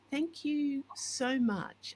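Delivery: retold gratitude, high and drawn out slowly; heartfelt thanks. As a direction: replay being genuinely grateful to a stranger. Retelling her grateful reply.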